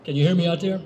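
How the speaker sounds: calling out to the crowd; calling from far away. Real, not acted. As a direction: raise the voice to reach the back. Checking mic to crowd.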